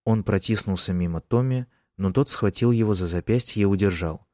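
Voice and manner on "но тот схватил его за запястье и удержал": usual speaking voice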